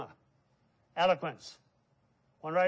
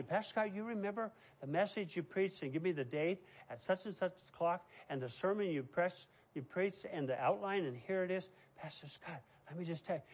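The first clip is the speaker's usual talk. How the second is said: put-on soft boy's voice; 6 dB quieter than usual. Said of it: "That's how he spoke".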